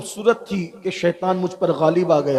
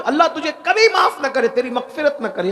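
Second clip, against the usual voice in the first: raised, fierce curse; cursing; 7 semitones higher than usual. Acted. The girl cursing the grave robber, raised voice. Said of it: "उसने बद्दुआ दी".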